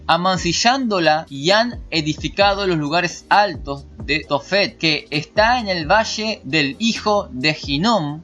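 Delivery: emphatic, measured Bible reading; scripture reading. Acted. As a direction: read the verse aloud, leaning on key words. Sigue leyendo el pasaje bíblico. (lectura bíblica enfática)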